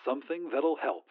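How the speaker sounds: soft, hushed and low. Acted. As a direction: say it quietly, like a secret. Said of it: "said the voice in a hushed tone".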